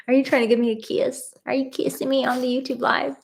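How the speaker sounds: high, quick sing-song pet voice. Real, not acted. Cooing at her dog Abby.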